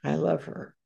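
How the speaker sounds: quiet words to herself, calming down; a gentle murmur to steady herself; soft inner reassurance. Retold or imitated. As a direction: hush it like a private vow. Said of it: "I went in my heart, I said".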